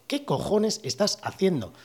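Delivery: slow threatening policeman repeated literally; slow menacing cop quote. Retold or imitated. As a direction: imitate the cop word for word, slowly. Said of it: "Así, ¿eh? Literal, os digo".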